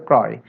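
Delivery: ক্রয় with an open ɔ, "krɔy"; unchanged open vowel. Shown as a demonstration. Teacher giving students the correct form, open-vowel ক্রয়. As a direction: keep ক্রয় open as in "awe". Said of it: "সেই জন্য উচ্চারণ হবে".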